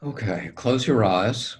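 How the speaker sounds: calm, unhurried meditation guide; guided meditation. Acted. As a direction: ease the listener into stillness, leaving long pauses.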